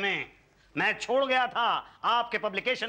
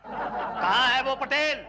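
angry shouting; 6 semitones higher than usual. Acted. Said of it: "क्यों चिल्ला रहे हो?". (चिल्लाकर तुकबंदी में शिकायत)

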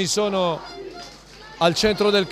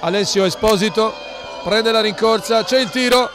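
excited penalty call. Real, not acted. Penalty scored, live call.

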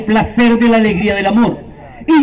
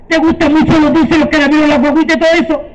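witch; 3 semitones higher, faster than usual. Acted. Witch tempting children.

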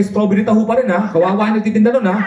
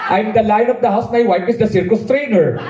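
slow grand line, deflated ending; slow mock pronouncement; 3 semitones higher, slower than usual. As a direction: declaim slowly, then let it fall flat. Repeating father's advice, undercut.

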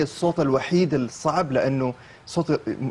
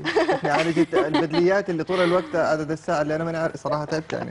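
laughing; 2 semitones higher than usual. Real, not acted. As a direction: laugh through the words. Host jokes about his struggles. (شكوى وسط الضحك)

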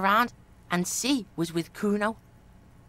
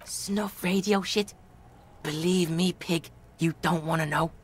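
put-on Kuno's street-kid voice; 5 semitones lower than usual.

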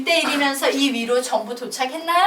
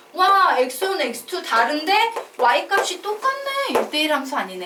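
higher, louder put-on astonishment; mock amazement; 5 semitones higher, 3 dB louder than usual. Teacher voicing a reaction to a wiggly graph, mock amazement. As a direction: exclaim as if just discovering it.

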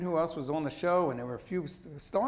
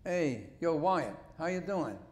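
Philly greeting. Retold or imitated. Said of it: "And I said".

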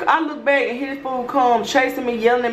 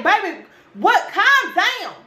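exasperated plea; 10 semitones higher, slower than usual. Retold or imitated. Retold exasperated reply to constant texts.

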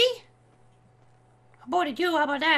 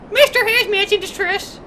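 quicker mock-alarm announcement; mock distress call; 4 dB louder than usual. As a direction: announce your own distress briskly. Game alarm, first take.

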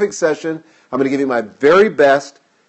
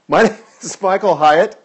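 name said through a light laugh after tripping; laughing at himself; 3 semitones higher, 3 dB louder than usual. Real, not acted. Host tripped over his own name, laughing it off. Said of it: "I can't even say it".

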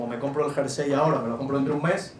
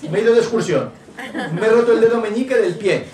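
laughing through it; 7 semitones higher, 6 dB louder than usual. Retold or imitated. Laughing example of child's mishap.

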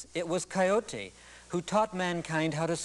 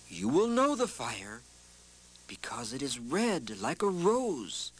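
wise Coyote; 2 semitones higher than usual. Acted. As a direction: speak like a calm trickster guide. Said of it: "Coyote said to them".

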